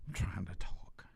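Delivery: hushed, breathy whisper. Real, not acted. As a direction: whisper it so nobody hears. Whispering while on toilet.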